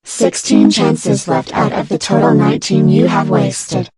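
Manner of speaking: menacing demon voice; evil voice. Acted. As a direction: threaten like a sinister computer demon. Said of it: "your evil voice is so scary".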